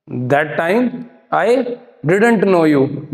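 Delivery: dramatic punchy hero lines. Shown as a demonstration. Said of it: "फिल्मी dialogue".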